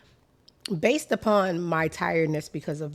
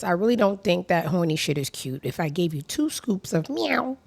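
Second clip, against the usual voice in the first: a touch of a West Indian lilt, louder; West Indian accent; 5 dB louder than usual. Retold or imitated. Reading her own tweet aloud in a light West Indian accent. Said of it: "it was a West Indian accent attached".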